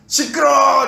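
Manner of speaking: loud, high comic shout for silence; explosive mock-angry silencing; shouted rebuke. Jesus at the bow silencing everyone, loud exasperated shout.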